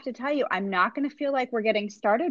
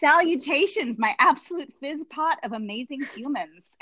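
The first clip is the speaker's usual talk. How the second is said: grand playful salutation, a touch higher; mock Sarah Duff greeting; 3 semitones higher than usual. Host reading the guest's post greeting, playfully grand. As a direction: hail the crowd like her posts do. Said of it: "an actual Sarah Duff greeting".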